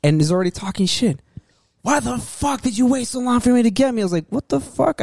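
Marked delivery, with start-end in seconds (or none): 1.8-4.0 high-pitched imitation of a drunk complaining; belligerent drunk customer. Drunk customer complains to young waiter, mock belligerence. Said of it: "drunk off his fucking mind". 4.3-5.0 high-pitched retold disbelief; mock bewilderment. Young waiter reacts to drunk customer, mock bewilderment.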